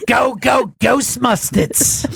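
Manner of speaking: exaggerated cartoonish New York shout; fake New York accent. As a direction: holler it like an old cartoon New Yorker. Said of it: "a little less fake New York".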